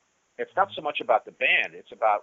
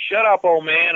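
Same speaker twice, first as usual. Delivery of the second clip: higher, louder taunting jeer; mocking; 7 semitones higher, 9 dB louder than usual. Nikki taunting Blackie outside the door, mock jeer. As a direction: sneer at him through the door.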